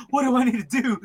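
high-pitched frantic question; hammed-up flustered plea; mock freak-out. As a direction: imitate someone at a loss and panicking. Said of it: "he's freaking out".

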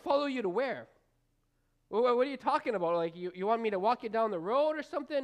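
fast, stammering mock disbelief; incredulous farmer. Farmer answering a stranger who says follow me, fast mock disbelief. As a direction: rattle it off like a baffled farmer. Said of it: "I could totally see the farmer going".

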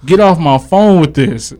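retold griping, pitched a bit high; mild exasperation. Retelling his brush-off of an early-morning caller, mildly exasperated. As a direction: act out fed-up dismissal of a pest.

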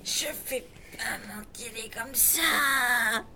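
sobbing shout; crying protest. Acted. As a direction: cry out in protest. About to be buried alive.

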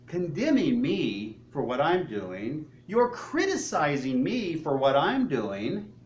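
slow, deliberate accusation; measured, pointed rebuke in an acted voice; acted confrontation. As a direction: lay out each charge slowly. Jesus imagined confronting the scribes.

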